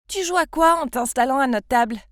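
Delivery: loud, sneering demand from the bully; hostile challenge. Acted. Mean girl snaps at the new kid. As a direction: confront her like you own the table.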